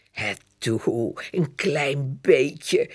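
slow wheedling plea; whining. Acted. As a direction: coax her, drawn out and begging. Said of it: "zeurt Jip".

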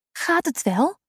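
put-on high, concerned girl's question; gently worried for him. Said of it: "vraagt Lotte bezorgd".

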